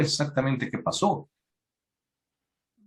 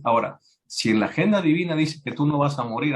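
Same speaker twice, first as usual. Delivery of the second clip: ordinary talk, nothing marked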